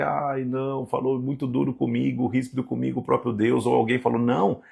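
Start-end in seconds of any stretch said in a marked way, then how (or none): 0.0-3.7 mock whining. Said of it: "uma geração de pessoas só que".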